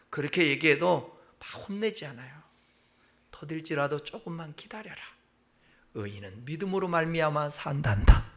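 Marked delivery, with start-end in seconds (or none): 3.3-8.3 gentle answer. Acted.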